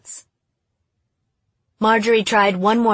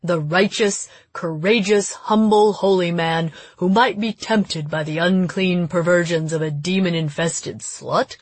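lightly voiced pompous man; man's voice. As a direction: puff out the chest, mock-righteous man. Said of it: "spoke in a man's voice".

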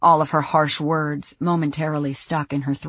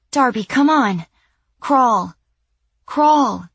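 higher, pressing plea to move; urgent hushed urging; 8 semitones higher, 6 dB louder, slower than usual. Acted. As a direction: hurry her along, tense. Urging her to crawl away.

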